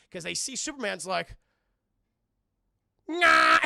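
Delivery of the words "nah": derpy nah. Acted. Confused Superman floats in sky.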